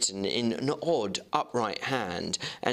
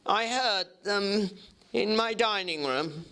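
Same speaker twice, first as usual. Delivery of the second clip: changed voice; 8 semitones higher than usual. Acted. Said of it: "bade him welcome in a changed voice".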